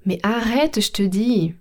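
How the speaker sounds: mildly annoyed insistence; insist, a touch cross, with „je te” as „shte”; lekka irytacja. Acted. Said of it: "un peu en colère".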